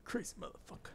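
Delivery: whispering. Retold or imitated. Echoing a game character's line.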